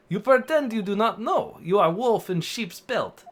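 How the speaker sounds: put-on amateur Russian interrogator accent. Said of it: "Oh, he's Russian".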